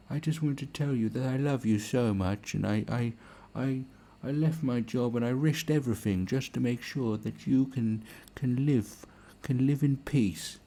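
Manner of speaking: high, earnest-sounding mock plea; gushing animal saviour. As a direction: simper sweetly at the lion, pitched well up. Acted plea to a lion.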